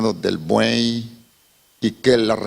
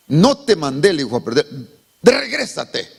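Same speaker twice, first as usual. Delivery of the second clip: stern rebuke; 3 semitones higher than usual. Acted. God rebukes the timid brother.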